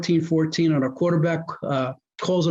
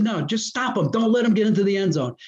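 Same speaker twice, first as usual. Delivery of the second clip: somewhat urgent, higher-pitched insistence; insistent retold order; 4 semitones higher than usual. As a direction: re-enact pressing an assistant to listen. Retold urgent order to assistant coach.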